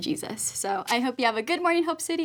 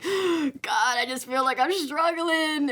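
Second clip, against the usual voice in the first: higher, pleading cry to God; a young woman telling God she's struggling, pleading; struggling prayer; 5 semitones higher, slower than usual. Retold or imitated. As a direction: pray like you're worn down. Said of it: "especially when I'm like".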